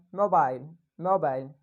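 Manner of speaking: "mobile" lifted on mo, falling on bile; rise-fall intonation. Shown as a demonstration. Teacher repeats the intonation example, rise-fall on "mobile". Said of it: "this is called intonation".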